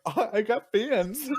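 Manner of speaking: milk it like a minor celebrity; mock bragging. Host playing himself cornered by listeners, mock bragging. Mock boast to people asking.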